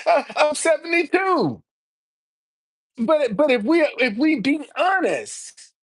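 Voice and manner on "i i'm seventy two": laughs then shouts his age again, amused; laughing. Real, not acted. Host laughing at the caller while repeating his age.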